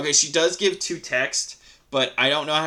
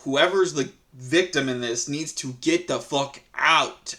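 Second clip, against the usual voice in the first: alarmed; slower than usual. Retold or imitated. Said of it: "I'm more of a".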